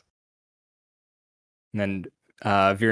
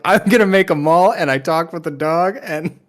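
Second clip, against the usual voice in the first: high, loud, tumbling over words; excited kid voice; 8 semitones higher, 8 dB louder than usual. Retold or imitated. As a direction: gush like a kid on the first day of school.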